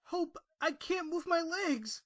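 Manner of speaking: alarmed, urgent plea; frightened. Acted. Pony finding his legs won't move, frightened. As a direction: tell her in rising panic. Stricken, tells friend.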